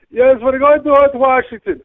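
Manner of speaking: high, slow, haughty lady voice; snooty passenger lady. Retold or imitated. Passenger announcing her trip to the cab driver, high and haughty. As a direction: put on the killer bee lady, drawn out. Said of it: "she gets in and she goes".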